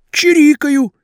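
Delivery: high, aggrieved pleading; pleading young man. A narrator's reading. Vasya bluffs.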